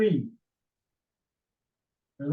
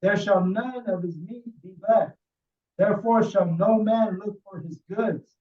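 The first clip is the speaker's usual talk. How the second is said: scripture reading; 4 dB louder than usual. Acted. Reads scripture aloud to group.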